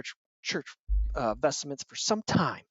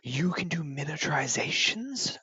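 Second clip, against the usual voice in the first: impressed; 3 semitones higher, slower than usual. Acted. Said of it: "they go".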